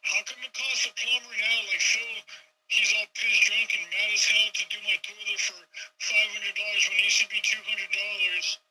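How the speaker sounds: a hint of a complaining homeowner at the plumbing bill; whiny customer. Plumber griping over a bill, mock whiny customer. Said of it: "customers are gonna be like".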